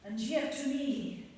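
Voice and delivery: grand Shakespearean recital, swelling and sinking; theatrical soliloquy. Acted. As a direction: declaim it like a tragic prince on stage. Hamlet recites his soliloquy.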